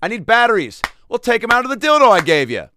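Matt Lauer impression. Matt Lauer complaining to Christina about the button, high. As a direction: whine it up high and loud. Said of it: "here's my Matt Lauer".

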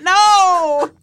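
high laughing protest. Real, not acted. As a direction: squeal it through laughter.

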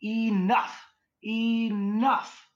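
loud, very high imitated cry; nice spirit guide. Teller mimics nice spirit's warning, high loud cry. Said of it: "you hear the nice guy go".

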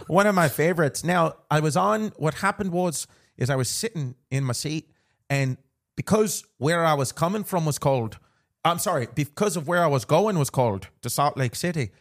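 storytelling in a playful Irish brogue; put-on Irish accent. Host telling co-host a flight story, Irish accent. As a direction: keep the mock Irish lilt going.

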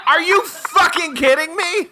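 high-pitched incredulous outburst through laughter; laughing disbelief. Real, not acted. Guesser learns the charades answer, laughing disbelief. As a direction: protest in disbelief while cracking up.

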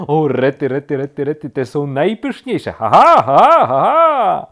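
loud excited babble into big laugh; gleeful laughing. A narrator's reading. Woodpecker relishes a larva, laughing loudly. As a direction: burst into high, loud ha-has. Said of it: "Dlaczego się śmiejesz".

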